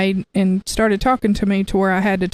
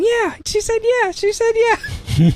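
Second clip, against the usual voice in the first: high, slow, giddy imitated chant; excited; slower than usual. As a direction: sing it out, stretched and thrilled. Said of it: "just going all over saying".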